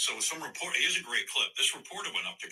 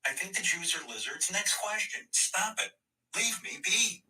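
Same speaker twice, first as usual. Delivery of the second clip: mocking whiny Kyrie; 9 semitones higher than usual. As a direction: whine like a spoiled brat caught out. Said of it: "he's just a fucking moron".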